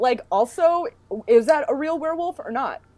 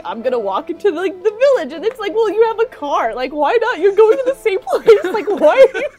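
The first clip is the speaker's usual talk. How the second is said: talking between sips of wine; words round a sip of wine; while sipping a drink; 8 semitones higher, 7 dB louder than usual. Real, not acted. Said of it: "I'm drinking wine".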